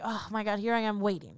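low, soft weary grumble; acted tiredness. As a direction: grumble softly, like someone tired of queuing. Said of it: "You're tired. You're like".

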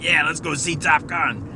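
loud, high mock-excited quote; fired up. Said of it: "he's been all fired up".

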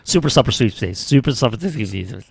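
rapid attempt that starts to stumble; fast tongue twister. Shown as a demonstration. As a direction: race through the tongue twister. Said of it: "Say that five times fast".

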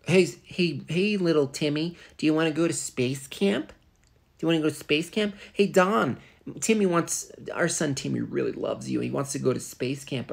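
high, bright parent voice; mock eager parent. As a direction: coo at the kid like an eager parent. Parent voice to kid and Don.

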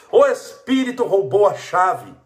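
slow, loud mocking drawl; mocking the excuse again, slow and loud; drawn-out mock excuse. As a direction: stretch out the silly excuse.

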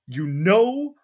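high, loud, picky complaint; fussy nitpicking man. Retold or imitated. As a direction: whine about the asparagus. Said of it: "being like".

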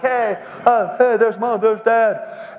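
put-on excited kid. Boy on the playground spots his parents driving by, excited kid. Voices himself as child spotting parents.

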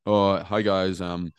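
hesitant, drawn-out mock video intro full of ums; time-wasting intro. Creator mocking slow video openers to camera, hesitant and drawn-out. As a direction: stall through a parody opening, pausing and filling. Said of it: "you've wasted fifteen seconds there".

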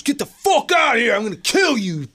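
high mock yell of a threat; retold yelling. Angry husband yells threats at the door, high mock yell. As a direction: bellow it like a raging drunk. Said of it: "he's yelling at me".

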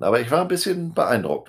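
ironic understatement. Real, not acted. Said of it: "um's mal vorsichtig auszudrücken".

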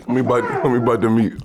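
chewing between words; talking around food; mouth full. Real, not acted. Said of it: "listening to us chew".

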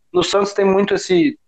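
words pushed out through a burp; talking while burping. Real, not acted. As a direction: burp in the middle of the sentence. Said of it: "eu tô arrotando aqui".

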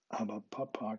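put-on whiny squawk of a small boy. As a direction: squawk it like a cheeky child. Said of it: "quäkte John".

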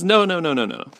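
high rapid string of protests falling away; kid's protest. Acted. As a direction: protest like a kid being carried off. Kid protesting bath, acted.

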